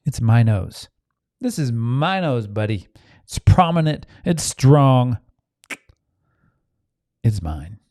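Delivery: embrace your own nose proudly; light mock proud declaration; proud self-love. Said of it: "Or I can look at the nose and go".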